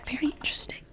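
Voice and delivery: airy whisper with a lift on "Very"; unvoiced, rising "Very". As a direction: breathe "Very interesting" as pure whisper.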